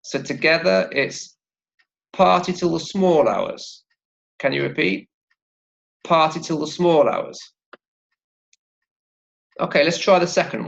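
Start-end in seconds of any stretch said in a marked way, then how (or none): 2.1-3.8 "party" and "small" stressed, "till the" light. Shown as a demonstration. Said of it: "stress on the word party". 6.0-7.4 "party" and "small" stressed, "till the" light. Shown as a demonstration. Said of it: "stress on the word party".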